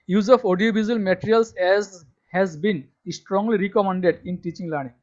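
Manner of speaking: reads the English line out very slowly and loudly, word by word; slow dictation reading. Shown as a demonstration. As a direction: spell it out slowly for students to copy. Reading syllabus text aloud. (ধীরে ধীরে জোরে পড়ে শোনানো)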